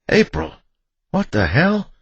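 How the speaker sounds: high, loud alarmed yell; shocked, high-pitched outburst; startled shout. A narrator's reading. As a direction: shout in shock from behind cover. Startled husband shouting after being shot at.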